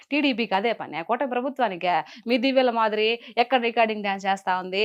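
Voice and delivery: rattled-off Nellore slang retort. Shown as a demonstration. Guest demonstrates her political video style, Nellore slang. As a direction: challenge a rival in Nellore dialect.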